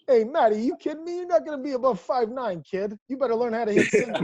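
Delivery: loud, high mock coach voice; needling coach impression. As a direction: rib the kid in a hammed-up coach's call. Coach ribbing young player, retold.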